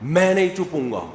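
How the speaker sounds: imitated defiant yell back; mock defiant retort. Child answering a shouting parent back, mock defiance. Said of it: "اتنی زور سے کہہ رہے ہوتے ہیں کہ آگے سے جواب آتا ہے".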